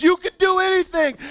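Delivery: high, loud overexcited promise; hyped-up shout. Retold or imitated. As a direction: pump up the whole crowd. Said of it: "he just keeps speaking these things".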